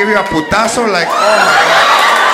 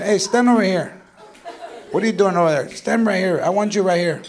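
hushed scolding mom; 2 semitones lower, 6 dB quieter than usual. Acted. Mother ordering child close.

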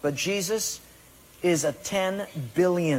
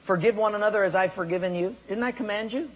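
the Lord commanding; 3 semitones higher, faster than usual. Retold or imitated. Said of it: "the Lord says".

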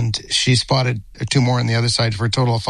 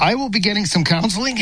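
real emotion, voice jumping high into a laugh; overcome, pitch climbing sharply, then a laugh; high, emotional admission breaking off into laughter; 9 semitones higher than usual. Real, not acted. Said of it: "He's been very emotional".

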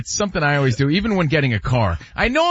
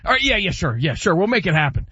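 car salesman; 4 semitones higher than usual. Retold or imitated. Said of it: "so they're like".

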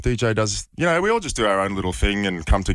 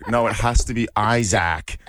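mock American media team; 2 semitones higher than usual. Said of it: "So their accent, trying to say it the way our accent".

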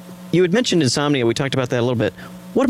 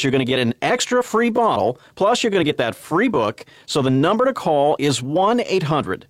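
infomercial pitch. Acted. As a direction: sell it to the listeners with lively rises and falls. Reads the offer and number.

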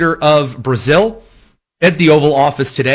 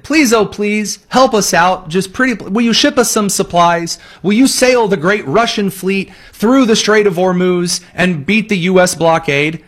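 higher, whiny beg for help; mock pleading; 5 semitones higher than usual. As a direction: ham up a desperate plea. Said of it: "went up to Moscow and said".

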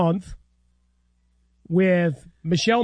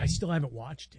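soft, low near-whisper; murmured confidentially; hushed podcast voice; 4 semitones lower, 10 dB quieter than usual. Pretend. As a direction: keep it hushed, playing along. Joins the whispered podcast bit.

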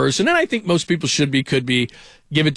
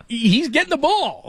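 pitched-up, laughing insistence; high insistent quote; 12 semitones higher, slower than usual. Retold or imitated. Telling callers about his son, a high laughing insistence. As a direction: say it like it's settled. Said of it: "I'm like".

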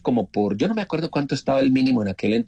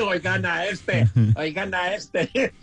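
annoyed locals; 6 semitones higher, much slower than usual. Retold or imitated. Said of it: "se arrechan conmigo".

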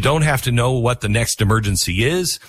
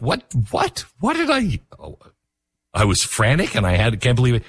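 flustered. Retold or imitated. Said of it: "And I'm like".

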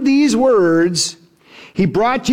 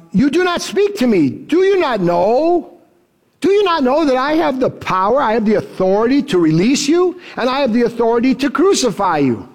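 raised, mock-stern Pilate demanding answers; scolding Pilate; 3 semitones higher than usual. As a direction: play Pilate scolding a prisoner, voice lifted. Pilate scolds Jesus in retelling.

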